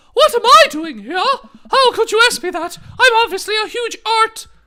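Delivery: very high, loud, scoffing character voice. In a role-play scene, answering the narrator as Joseph in a high-pitched voice. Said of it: "That's the high pitched voice".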